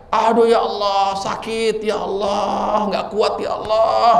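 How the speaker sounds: a hint of drawn-out moaning, slow; half-hearted groans of a sick person; imitating a moaning patient. Sick woman groaning to God, mildly imitated. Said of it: "lalu dia berteriak-teriak".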